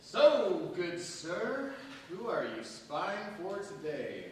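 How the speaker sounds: loud, high, sarcastic welcome; mocking greeting. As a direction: greet him with scornful irony. Prisoner mocks visiting intermediary.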